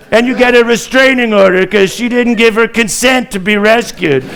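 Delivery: a lightly voiced rambling Trump. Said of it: "Now we have Donald Trump also talking".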